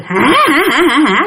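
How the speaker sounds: quick mock ghost-baby laughter; imitated child's laugh. Ghost baby laughs instead of crying when fallen on, imitated rapid cackle. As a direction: rattle off a put-on baby cackle. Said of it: "đứa bé này nó cười".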